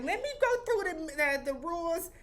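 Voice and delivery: high, emphatic robot announcer; hammed-up little robot reading rules. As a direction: recite the rules in a high-pitched doll-robot voice. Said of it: "the little robot was like".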